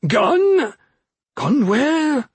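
put-on high, sharp old witch. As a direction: demand it like a witch. Witch demands answer.

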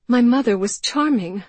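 muffled behind her hand, high and loud. A narrator's reading. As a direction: speak through a hand over the mouth. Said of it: "she said in a muffled voice".

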